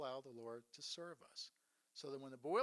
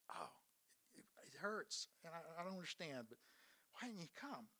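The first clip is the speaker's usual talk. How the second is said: whispered, hurting and lost; a soft, pained whisper, a little quick; hushed grief; 6 dB quieter than usual. Acted. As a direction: breathe it out like a grieving sister. Mourner voicing grief at Jesus' absence.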